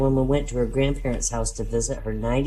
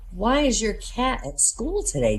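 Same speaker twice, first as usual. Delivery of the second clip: teacher voice; 8 semitones higher, 3 dB quieter than usual. Acted.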